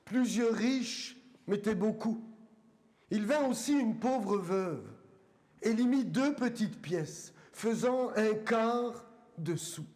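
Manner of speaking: measured Bible reading with long pauses between phrases; deliberate, weighty reading aloud to a congregation; solemn scripture reading. Acted. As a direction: read it out phrase by phrase, letting each one land.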